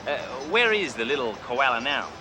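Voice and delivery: cocky Australian car dealer bragging to a salesman; fake Australian accent. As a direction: play the brash outback tycoon Crocodile Bruce. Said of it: "Name's Crocodile Bruce".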